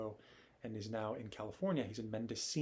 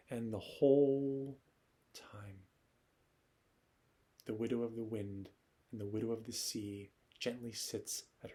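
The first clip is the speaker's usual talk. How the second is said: nostalgic poem recital. Acted. Noah remembering someone at sunset, nostalgic recital. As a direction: recite with pauses, letting the last phrases sink away. Poet performs his character's reflections.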